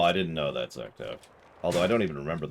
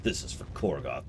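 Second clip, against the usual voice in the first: dramatic; 4 semitones lower, 5 dB quieter than usual. Shown as a demonstration. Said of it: "Gotta say it all dramatic".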